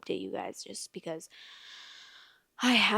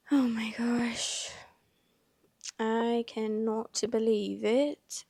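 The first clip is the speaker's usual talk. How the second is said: breathless, whispered disbelief; shocked whisper; 3 semitones higher, slower than usual. Real, not acted. Vlogger stunned by the Reddit post, whispering in shock. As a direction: gasp it out in a hushed whisper.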